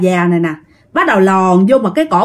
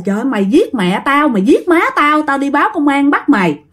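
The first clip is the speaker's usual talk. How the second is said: angry wife; 4 semitones higher than usual. Acted. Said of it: "con Lan nó cũng giận dữ lắm".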